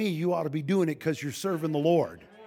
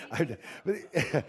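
slow laughing confession; slower than usual. Real, not acted. Repeating the joke, laughing.

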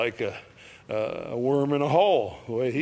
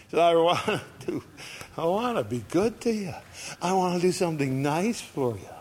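voicing God; 5 semitones higher than usual. Voicing God's kind wish.

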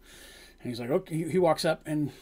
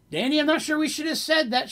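worried doubt; 10 semitones higher than usual. Acted. Worried companion after reaction.

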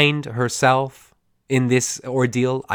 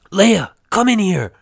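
strained higher boss calling her in; 7 semitones higher, 4 dB louder than usual. Retold or imitated. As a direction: put on a stern boss summoning an employee. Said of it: "Just doing that with my voice made me scratchy".

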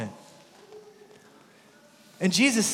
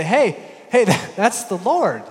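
excited recognition; 4 semitones higher, 6 dB louder than usual. Retold or imitated. Disciple recognizes Jesus.

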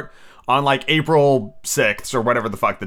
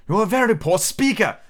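king voice; 8 semitones higher than usual. Acted.

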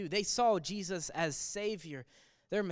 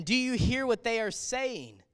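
indignant priests; 4 semitones higher than usual. Retold or imitated. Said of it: "they said to him".

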